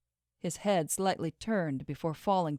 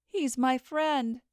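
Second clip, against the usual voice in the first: pleading; 7 semitones higher, slower than usual. Acted. Arguing to reach her friend.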